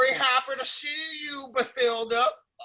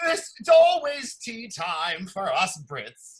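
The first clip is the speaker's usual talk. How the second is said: British; 2 semitones lower, slower than usual. Acted. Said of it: "any British out here".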